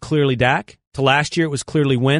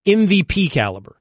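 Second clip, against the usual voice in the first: exasperated rant; 6 semitones higher than usual. Real, not acted. Host argues stats against co-host.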